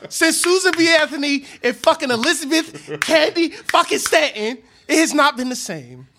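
loud, high-pitched rant; laughing, furious yell; heated yelling. Real, not acted. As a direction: shout it down with a laugh. Ranting, talking over friend.

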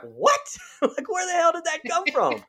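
high, laughing disbelief; incredulous. Retold or imitated. Reacting to the movie script, high laughing disbelief. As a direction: squeal out the confusion through a laugh. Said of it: "I was like".

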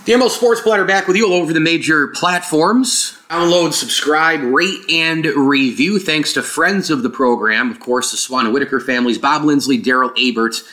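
hollow, roomy mic sound; like recording in a big empty room; echoey open sound. Real, not acted. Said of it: "if you heard kind of an echoey open thing".

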